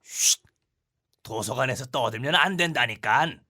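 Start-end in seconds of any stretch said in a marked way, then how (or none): 0.0-0.4 shushing. Acted. Librarian hushing.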